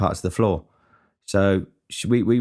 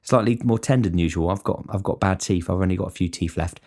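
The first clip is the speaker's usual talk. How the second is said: mock fussy diner. Cook imagines a picky pie order, lightly whiny mock voice. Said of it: "you don't say".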